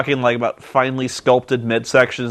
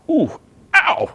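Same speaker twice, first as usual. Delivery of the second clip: high wincing ooh, then ow; mock wince; 9 semitones higher than usual. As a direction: wince in mock sympathy pain. Imagined reaction to painful welts.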